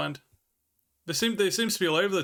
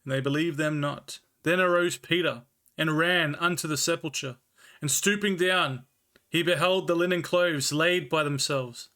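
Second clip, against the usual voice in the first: measured, slightly slowed scripture reading; Bible reading; slower than usual. Acted. Streamer reading the Bible to chat, measured and slowed. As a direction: read the King James text with care.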